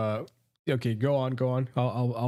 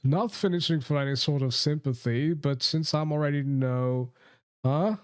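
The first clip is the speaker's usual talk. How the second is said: put-on posh British accent. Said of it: "posh British".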